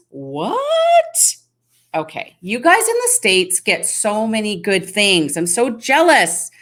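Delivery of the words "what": squeaky, much higher shocked "What?"; a high, startled yelp at the comment; surprised what. Real, not acted. Reacting to a viewer's walking tacos comment, shocked.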